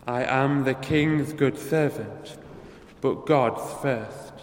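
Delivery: slow, weighty quotation; solemn quote. Retold or imitated. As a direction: let each word of the martyr land slowly. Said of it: "The famous quotation from Saint Thomas More".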